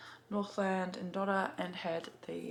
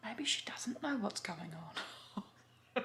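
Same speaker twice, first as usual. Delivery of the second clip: slow, hushed, barely voiced joke; slow softer whispered quip; sly whisper; 3 semitones higher, 5 dB quieter, much slower than usual. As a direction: whisper it slowly like a secret. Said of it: "the cashier responded".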